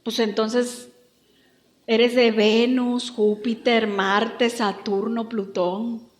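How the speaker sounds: low, slow mocking question; deadpan sarcasm. Deadpan sarcastic reply to pious claim.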